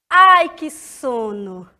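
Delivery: acted drowsy exclamation; sleepy sigh. Shown as a demonstration. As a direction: yawn it out. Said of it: "É uma frase exclamativa".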